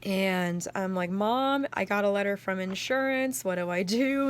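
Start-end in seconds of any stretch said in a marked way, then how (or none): 1.1-4.3 scared plea. Retold or imitated. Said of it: "trembling 'cause I was so scared".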